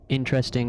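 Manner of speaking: "interesting" with a clear EH in the middle; E-sound pronunciation. Shown as a demonstration. Showing the supposed Midwest way, "interesting" as IN-tress-ting. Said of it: "with an E s-, type of sound".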